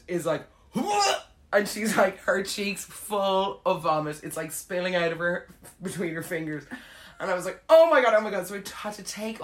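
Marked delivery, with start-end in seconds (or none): 0.7-1.3 sudden high, loud mock heave; comic vomiting noise, pitched up; imitated retch. Imitates friend about to vomit. 7.7-8.5 loud, high alarmed exclamation; comic alarm, voice jumping up; retold panic. Retold panic as friend vomits.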